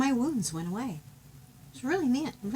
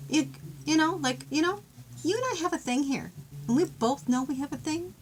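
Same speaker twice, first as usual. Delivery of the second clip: pleading lover; 6 semitones higher, 4 dB louder than usual. Pretend. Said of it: "voicing a lover's plea".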